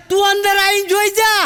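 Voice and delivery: angry shout. Retold or imitated. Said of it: "પેલો ભાઈ જોરથી કહે છે".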